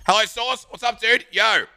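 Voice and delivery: bright, high hello to chat; calling out a friendly hello; cheery greeting. Real, not acted. Streamer greeting a viewer, high and upbeat.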